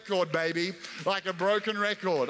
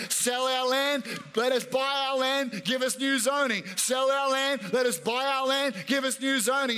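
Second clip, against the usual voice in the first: raised, insistent pleading to God; bold persistent prayer. Retold or imitated. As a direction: knock on heaven's door and keep knocking. Worshipper shamelessly pleading with God.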